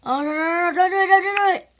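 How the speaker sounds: loud pained cries at the match; dismayed shout. Real, not acted. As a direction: yell in real dismay.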